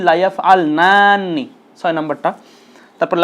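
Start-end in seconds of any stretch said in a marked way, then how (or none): 0.1-1.4 slow repeat. Shown as a demonstration. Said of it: "আবারও বলছি".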